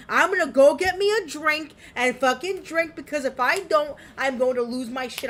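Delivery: fuming. Real, not acted. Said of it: "I am fucking fuming right now".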